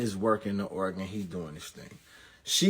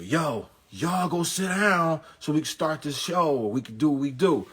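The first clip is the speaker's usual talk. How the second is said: impatient announcer; 5 semitones higher than usual. Retold or imitated. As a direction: hold the room like an emcee losing patience. Announcer on the loudspeaker again.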